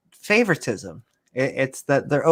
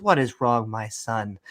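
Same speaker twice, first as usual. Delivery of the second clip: soft, lower kindly father; a hint of a gentle Pharaoh soothing his son; 4 semitones lower, 5 dB quieter than usual. Pharaoh asks his son what's wrong, gently.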